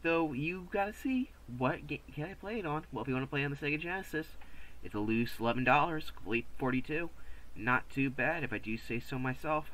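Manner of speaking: high-pitched goofy voice; silly put-on voice. YouTuber joking through game prices, silly high voice. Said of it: "I don't know why I'm doing this voice".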